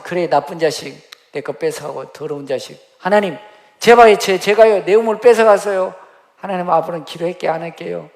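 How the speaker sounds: high, loud pleading complaint; loud whiny plea to heaven about a stolen well; Abraham whining to God. Acted. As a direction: wail like a wronged man begging God.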